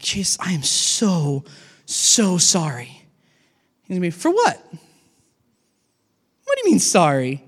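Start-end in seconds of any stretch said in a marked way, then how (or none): 0.0-3.1 drawn-out, contrite plea; a mildly pleading sorry to Jesus; slow apology. Acted. Acting his apology to Jesus. 4.1-7.4 Jesus genuinely confused by the apology; a lightly voiced, surprised Jesus; puzzled Jesus.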